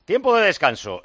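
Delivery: high, loud announcer call; sudden bright-pitched sports announcement; half-time call. Real, not acted. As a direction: call out the break over the chatter. Host calls out half-time.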